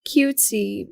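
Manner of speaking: lightly put-on cutesy tee-hee; mildly mocking imitation of cutesiness. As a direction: imitate someone being coyly cute. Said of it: "she said it in a, like".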